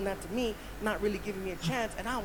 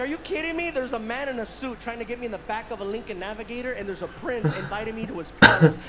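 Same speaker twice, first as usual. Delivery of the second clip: disbelieving excitement; 6 dB louder than usual. Retold or imitated. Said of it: "I'm like".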